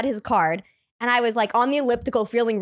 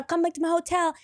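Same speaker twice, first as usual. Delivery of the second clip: put-on higher, coaxing French-accented line; 5 semitones higher, 3 dB quieter than usual. French guy invites her to his hotel, French accent. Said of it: "I met this French guy".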